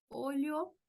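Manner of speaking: "olho" ending in a full o, "OH-lyo"; final O kept. Shown as a demonstration. Teacher allows the alternative, "olho" ending in O. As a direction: keep the last vowel of "olho" as O. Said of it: "también está correcto".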